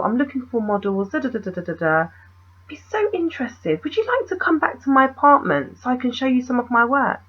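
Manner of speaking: mock an artsy man's sales patter; artsy fartsy. Photographer inviting a stranger to see his work, lightly mocked artsy fartsy. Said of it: "he sounded really artsy fartsy".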